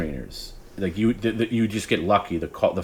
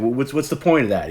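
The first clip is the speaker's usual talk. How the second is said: higher, stammering mock exasperation; infuriated Howard; 6 semitones higher, 3 dB louder than usual. Host questioning the prank caller's purpose, infuriated. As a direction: demand an answer like a baffled, angry host. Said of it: "Howard would get infuriated by it".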